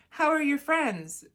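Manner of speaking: high, loud, slow prying question; probing mom. Acted. Mom asking teenager about friends, probing. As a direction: draw out a pushy motherly question.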